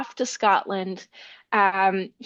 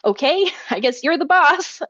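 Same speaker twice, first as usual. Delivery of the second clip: higher-pitched, acted giving in with a little chuckle; mock meek agreement, pitched up; reluctant giving in; 5 semitones higher, 4 dB louder than usual. Finn gives in to his bossy wife, reluctant agreement.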